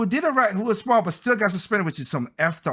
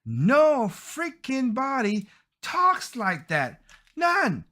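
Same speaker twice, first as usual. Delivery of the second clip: drawn-out, higher-pitched indignant rant; angry; 4 semitones higher, slower than usual. Real, not acted. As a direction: stretch each word out in real exasperation. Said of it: "it does get me angry".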